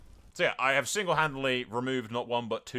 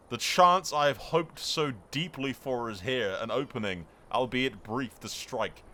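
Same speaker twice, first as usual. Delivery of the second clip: dramatic story narration. Acted. Reads out dramatic event text.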